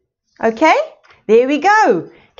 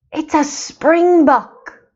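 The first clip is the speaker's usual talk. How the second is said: drawn-out answer; slower than usual. Shown as a demonstration. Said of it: "A springbok, yes".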